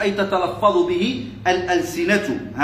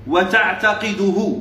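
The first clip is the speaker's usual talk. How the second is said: very slow, measured reading of وتعتقده; وتعتقده drawn out for students to follow; slow dictation; much slower than usual. Shown as a demonstration. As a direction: stretch وتعتقده out syllable by syllable. Dictating the text word by word.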